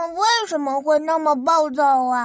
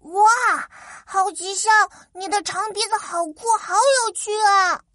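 excited; 5 semitones higher than usual. Acted. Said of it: "都说".

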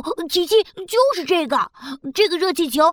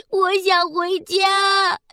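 tearful; 3 semitones higher, much slower than usual. Acted. Alien cries to go home.

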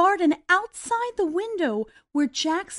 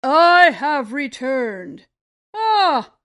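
louder, slow booming giant voice; 7 dB louder, slower than usual. Acted. Giant announces his return home, booming. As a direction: boom it out like a huge giant. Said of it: "in his booming voice".

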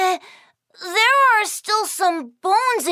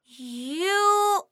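very slow, stretched-out statement; drawn-out obvious; 3 semitones lower, much slower than usual. Acted. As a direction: spell out the obvious. Kiki stating obvious, drawn out.

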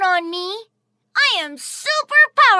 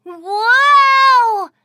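amazed wow; 7 dB louder than usual. Acted. Child amazed at snow kingdom.

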